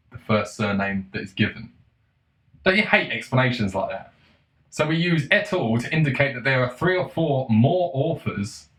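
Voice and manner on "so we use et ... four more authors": mocking read-back. Mockingly rereads the hated explanation.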